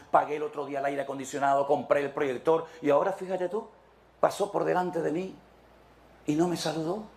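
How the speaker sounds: mock offended member.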